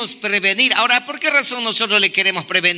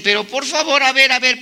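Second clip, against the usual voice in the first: higher-pitched acted protest; imitated insistent objection; challenging interruption; 5 semitones higher, faster than usual. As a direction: break in as doubting listeners demanding a reason. Corinthians interrupt Paul, acted.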